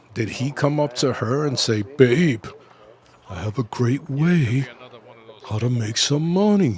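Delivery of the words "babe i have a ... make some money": mocking, stupid-sounding put-on voice. Imitating a boyfriend pitching a money idea, mocking dumb voice. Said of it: "Now I changed my voice".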